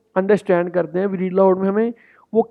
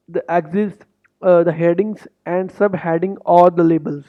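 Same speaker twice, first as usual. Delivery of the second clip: slow, deliberate read-through of the test rules; slow instruction reading; much slower than usual. Shown as a demonstration. Coach reading exam instructions to students, slow and deliberate.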